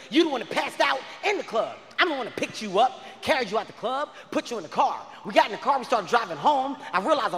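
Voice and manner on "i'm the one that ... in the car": ordinary delivery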